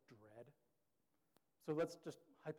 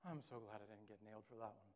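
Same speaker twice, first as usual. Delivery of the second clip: breathy whew then lower, softer relief; relieved sigh; 5 semitones lower, 7 dB quieter, slower than usual. Retold or imitated. Caught but forgiven, sighing with relief under the breath. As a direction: exhale the relief quietly. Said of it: "you're like".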